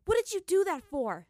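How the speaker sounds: sharp, high angry demand; heated demand. Acted. Katara furiously demands why Zuko kissed her, shouting. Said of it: "she demanded of him heatedly".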